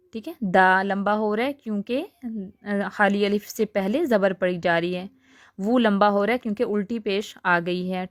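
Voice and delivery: ordinary talk, nothing marked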